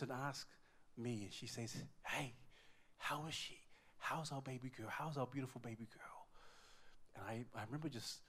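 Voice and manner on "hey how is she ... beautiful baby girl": soft, tired, tender questions; hushed, weary retold voice; exhausted wife. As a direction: imitate a worn-out new mother asking gently. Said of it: "She was totally exhausted".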